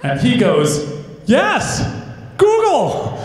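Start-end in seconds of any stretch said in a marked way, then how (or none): 1.3-3.2 high, loud mock-excited reply. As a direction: imitate a thrilled telemarketer, pitch jumping up. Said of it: "And he gets excited".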